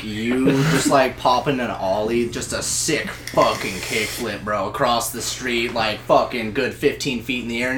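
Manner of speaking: low, soft, drawn-back narration; hushed, low-pitched storytelling; hushed awe. Pretend. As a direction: paint the scene quietly, building a picture. Hushed awed picture of imagined stunt.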